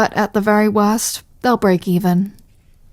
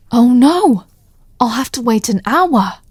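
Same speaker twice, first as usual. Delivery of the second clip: mock dismay; 3 semitones higher than usual.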